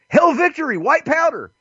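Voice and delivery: high-pitched hammed-up chant; mock yelling. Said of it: "they were yelling".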